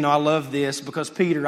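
usual speaking voice

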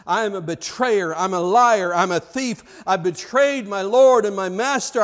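loud, self-accusing outburst; self-loathing. Retold or imitated. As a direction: condemn yourself line by line. Judas condemns himself.

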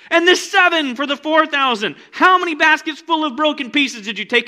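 loud, high, pleading rebuke; rebuking Jesus. Acted. Jesus rebuking the disciples in the boat, loud and pleading. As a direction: press them hard with questions.

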